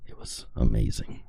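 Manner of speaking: lost voice, hoarse and low. Real, not acted. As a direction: rasp it out with a worn-out voice. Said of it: "my voice is gone".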